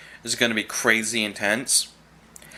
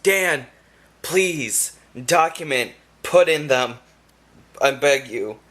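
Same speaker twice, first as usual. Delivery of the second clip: pleading; 3 semitones higher, slower than usual. Retold or imitated. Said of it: "And I was just like".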